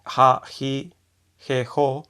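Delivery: "ha, hi, he, ho" each on a breathy h; aspirated H. Shown as a demonstration. Teacher listing Japanese H sounds, aspirated H. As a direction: separate syllables "ha, hi, he, ho" with pauses. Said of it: "está la H aspirada".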